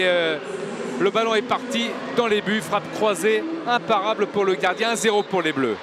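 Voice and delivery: high, loud thrilled analysis; excited sports commentary. Real, not acted. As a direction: gush over the strike, loud and high. Co-commentator reacts to goal.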